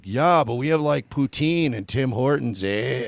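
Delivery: lightly put-on Canadian accent; teasing imitation of a proud Canadian accent; mock Canadian. Host teases Canadians about their country, mock Canadian accent. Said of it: "you guys are like".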